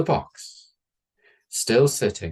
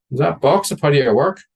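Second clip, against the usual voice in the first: higher and louder prying voice; louder nosy question; 6 semitones higher, 7 dB louder than usual. Retold or imitated. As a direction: push the question out, curious. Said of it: "He's like".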